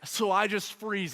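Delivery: ordinary talk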